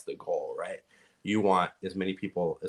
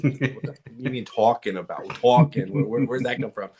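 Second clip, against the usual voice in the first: louder, higher mock puzzlement; retold startled reaction; 4 semitones higher, 6 dB louder than usual. Listener reacting to a slipped New York accent, mock surprise. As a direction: call out the odd word, baffled. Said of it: "And, and someone goes".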